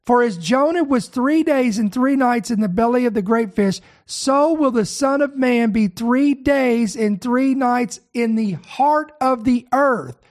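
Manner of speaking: slowed right down, each word weighed; measured scripture reading, leaning on three days and three nights; slow and deliberate. Shown as a demonstration. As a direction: read it slowly so every word lands. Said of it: "listen to this very clo-, closely".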